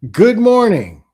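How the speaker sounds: mock sugary text greeting; sweet fake greeting.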